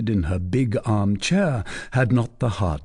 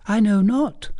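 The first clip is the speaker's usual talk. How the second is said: put-on a higher, teasing young lady's voice; coy young lady; 11 semitones higher than usual. A narrator's reading. Young lady teasing the captain, coy and higher. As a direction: play the coy cousin pressing her question. Fleur de Lis voiced high.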